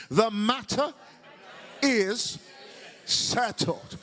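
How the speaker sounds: measured preacher's delivery with pauses. Shown as a demonstration. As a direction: preach it, word by word. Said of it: "say it with your preacher's voice".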